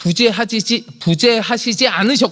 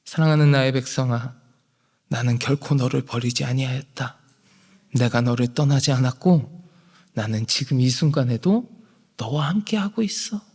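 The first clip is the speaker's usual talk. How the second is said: tender divine voice; 7 semitones lower, 5 dB quieter than usual. Acted. Voicing God's answer tenderly.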